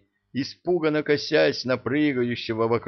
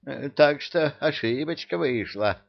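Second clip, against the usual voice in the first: muttering emir; 6 semitones higher than usual. Acted. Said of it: "бормотал эмир".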